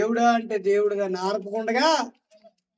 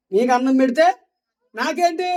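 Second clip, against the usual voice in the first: loud taunting Jacob; 2 semitones higher, 4 dB louder than usual. Retold or imitated. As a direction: throw the demand at his hungry brother. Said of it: "అని అడుగుతున్నాడు".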